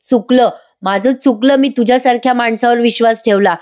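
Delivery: understated acted outrage; retold indignation. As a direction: act out a wronged woman's outburst. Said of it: "Nandini संतापते आणि म्हणते".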